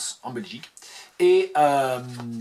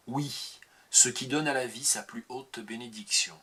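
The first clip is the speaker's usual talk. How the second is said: poetry reading. Acted. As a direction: read it as a tender poem. Reads a poem aloud.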